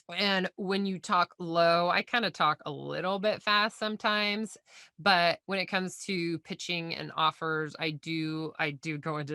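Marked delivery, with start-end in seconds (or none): 5.0-9.3 a touch lower and softer pitch voice; lightly lowered, unhurried pitch voice; low sales voice. Shown as a demonstration. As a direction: drop into your calm sales-call register. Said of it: "this voice as I just did right now".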